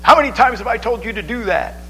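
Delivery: high, exasperated nagging mother; nagging mom. Retold or imitated. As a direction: scold like a fed-up mom. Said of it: "moms complain".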